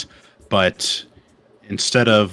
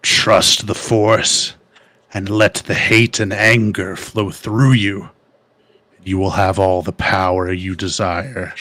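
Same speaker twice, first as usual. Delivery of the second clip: very slow, ominous dark lord; sinister tempter voice; slower than usual. Acted. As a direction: draw out each word menacingly.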